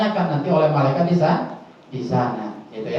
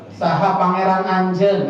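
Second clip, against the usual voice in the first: put-on Sundanese accent; 2 semitones higher than usual. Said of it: "kalau orang Sunda kan".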